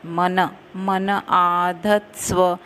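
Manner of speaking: मन said as mana, not man; मन with final a. Shown as a demonstration. Teacher correcting students on मन in the verse. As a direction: voice the short a after मन. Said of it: "मन नहीं".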